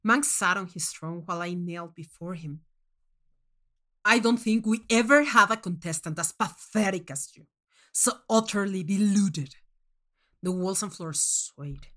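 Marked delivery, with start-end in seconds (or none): 4.0-9.6 contemptuous judge. Acted. Manx scorns kneeling contestant.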